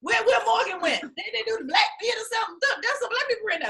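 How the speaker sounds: a hint of a curious dad; imitating father. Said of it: "My father was like".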